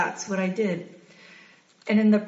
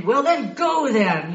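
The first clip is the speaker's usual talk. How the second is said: slow, louder mock of dad's angry retort; 3 semitones higher, 5 dB louder, slower than usual. Daughter quotes her angry father telling her to go. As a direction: imitate dad raising his voice, slowed down. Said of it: "raised his voice and everything".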